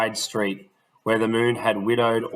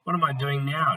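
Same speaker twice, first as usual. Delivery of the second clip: put-on demanding boy; 5 semitones higher than usual. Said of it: "demanded Smith".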